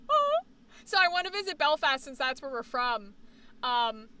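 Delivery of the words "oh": disappointed oh. Retold or imitated. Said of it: "I was like".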